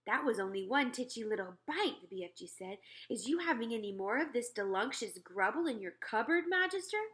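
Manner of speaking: hungry giant begging sweetly; the BFG. Acted. Narrator voices the BFG.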